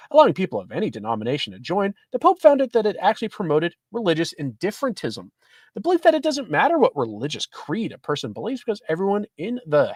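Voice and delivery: lively, articulated article read; reading an article aloud. Acted. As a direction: read the report out to listeners. Reads news article aloud.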